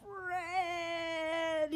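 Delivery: high, joyful cry of the name. A narrator's reading. Boy seeing Fred again, joyful cry. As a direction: call out in happy surprise. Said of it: "he cries".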